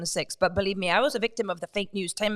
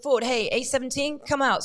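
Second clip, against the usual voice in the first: raised, higher call to a prisoner; 5 semitones higher, 4 dB louder than usual. Retold or imitated. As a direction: call him out of his cell, retold. Deputy calls prisoner out of cell.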